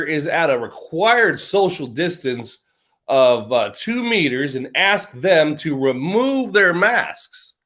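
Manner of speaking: reads the rules out slowly and deliberately; slow pamphlet read. Acted. Reading his hearing pamphlet to viewers, slow and deliberate. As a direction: spell out each rule at a slow pace.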